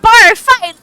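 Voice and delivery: high, loud gleeful yell; excited shout. Real, not acted. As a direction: chant it with pure glee. Player cheers the bar fight.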